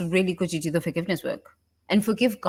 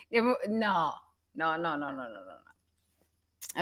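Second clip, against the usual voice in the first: fading no; 2 semitones lower, 7 dB quieter than usual. Acted. Trailing repeated no.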